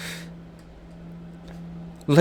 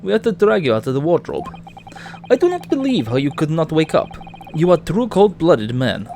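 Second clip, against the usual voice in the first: put-on Russian accent. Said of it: "if you wanna do a Russian accent".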